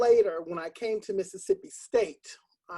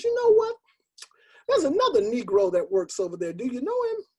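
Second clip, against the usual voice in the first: put-on higher, louder, an old man's offhand remark; elderly man; 4 semitones higher, 5 dB louder than usual. Old man asking teacher about coworker, casual. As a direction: say it casually, friendly. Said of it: "he says".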